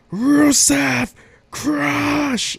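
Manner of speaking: high, loud mock ring call; imitating a wrestler hyping his partner; hype call. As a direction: yell it into the mic like a hype man. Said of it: "with mic in hand and says".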